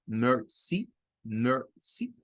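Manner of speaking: «mercy» con la I final corta. Shown as a demonstration. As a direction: separa «mercy» en mer y una sí breve. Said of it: "un sonido corto para la I". («mercy» lento, por sílabas, I final corta)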